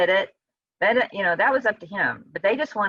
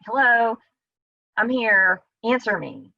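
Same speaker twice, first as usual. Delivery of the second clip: blunt direct plea. Retold or imitated. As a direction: say it straight, no politeness. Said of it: "that's just too direct".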